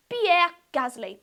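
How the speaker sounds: put-on French accent on the name. Introducing the French driver to viewers, French accent. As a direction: say "Pierre Gasly" with a French flourish. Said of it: "I went with a French accent".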